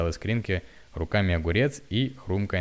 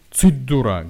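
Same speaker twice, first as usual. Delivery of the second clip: loud, higher, wrathful shush; angry hush; 5 semitones higher, 10 dB louder, slower than usual. A narrator's reading. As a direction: silence her with a furious snap. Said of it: "гневно цыкнул он на неё". (гневный окрик)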